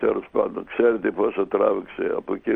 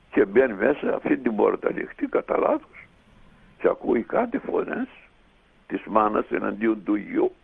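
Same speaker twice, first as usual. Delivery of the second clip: normal talking voice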